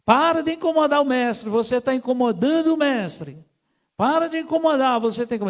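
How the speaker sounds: high, loud mock rebuke; imitated scolding crowd. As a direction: shush a nuisance as the annoyed crowd. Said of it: "querer calar a boca de Bartimeu".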